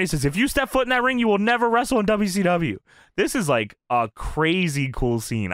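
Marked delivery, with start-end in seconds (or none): 0.2-2.8 high-pitched mock yell; retold yelled threat. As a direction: imitate a boss threatening a wrestler. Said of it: "Bischoff's yelling at Norton".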